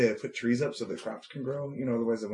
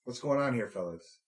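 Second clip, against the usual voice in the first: put-on Canadian accent. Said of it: "Would you like to hear my Canadian?".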